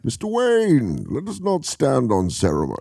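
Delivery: light villain impression. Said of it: "Could you do it?".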